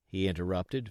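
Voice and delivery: ordinary delivery, nothing marked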